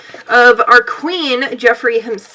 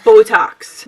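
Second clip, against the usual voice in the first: accented Botox; 2 semitones lower, 4 dB louder than usual. Real, not acted. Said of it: "Why did I say that with such an accent?".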